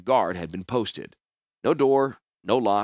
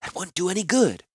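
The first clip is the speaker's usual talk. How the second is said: much higher, gently reasoning woman; calm woman voice; 9 semitones higher than usual. Acted. Orm's voice in dialogue.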